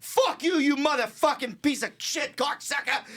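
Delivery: high, furious Boston cursing; hammed-up Boston tirade; mock Boston accent. Run-over guy cursing the driver, mock Boston accent. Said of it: "It's Boston".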